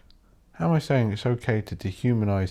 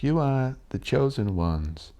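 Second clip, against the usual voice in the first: higher, mock-grand ranting Hitler; 5 semitones higher than usual. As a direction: ham up a demagogue telling the crowd they're chosen. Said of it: "Hitler was like".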